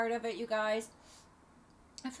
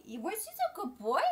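dog praise; 7 semitones higher than usual. Real, not acted. Praising her dog again.

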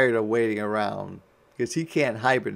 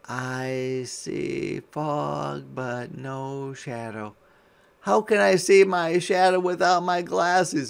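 slow puzzled voice; 2 semitones higher than usual. Acted. Nearsighted groundhog reports.

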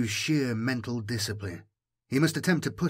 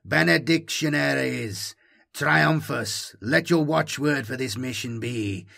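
calling out; 2 semitones higher, 4 dB louder than usual. Acted. Inquisitor addressing assembled warriors.

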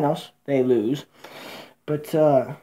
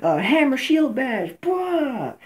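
mock crying; 8 semitones higher, slower than usual. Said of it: "He's like".

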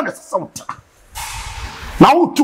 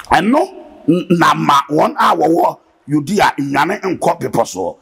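scripture reading; slower than usual. Acted.

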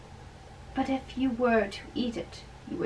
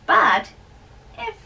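raised, loud and jovial; cheerful old friar; 4 dB louder than usual. Acted. Old friar teasing the young man at dawn, loud and jovial. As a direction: tease the young man heartily, voice up.

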